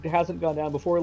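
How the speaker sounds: high, clueless dude impression; dopey guy voice. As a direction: play him airheaded and oblivious. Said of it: "but he was like".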